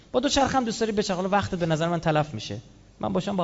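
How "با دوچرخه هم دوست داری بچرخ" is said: quick. Shown as a demonstration. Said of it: "said twice, told to ride a bicycle".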